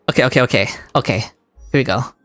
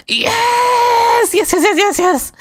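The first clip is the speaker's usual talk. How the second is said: much higher crying scream of joy; screaming yes, head turned; much slower than usual. Real, not acted. Streamer screaming away from the mic after winning. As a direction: let the scream break into a cry. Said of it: "turning my head away when I scream".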